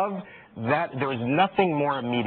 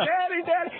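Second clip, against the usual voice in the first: put-on high little-girl calls of daddy; toddler calling; 14 semitones higher than usual. Dad imitating daughter calling him from the mud. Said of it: "she goes".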